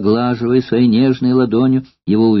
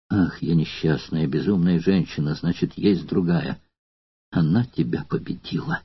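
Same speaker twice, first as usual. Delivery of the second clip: despairing; 6 semitones lower, 7 dB quieter than usual. Acted. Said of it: "куртизанка зарыдала".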